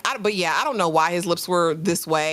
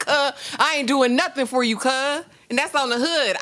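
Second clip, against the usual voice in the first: mock thug; 6 semitones higher than usual. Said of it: "this man was like".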